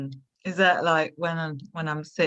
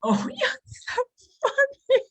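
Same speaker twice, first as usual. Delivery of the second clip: sarcastic laughing. Acted. Mock laugh at pun.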